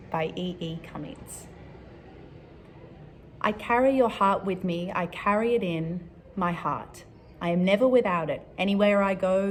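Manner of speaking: measured love-poem recital; poem reading. Acted. Reading a favorite love poem to Year Four, measured poem reading.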